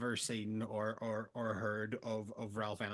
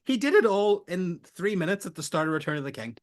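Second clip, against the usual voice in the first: loud, high protest; worked-up, raised-voice insistence; exasperated rant; 6 semitones higher, 9 dB louder, faster than usual. Real, not acted. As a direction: argue it at full volume. Heated comic rant about the plot.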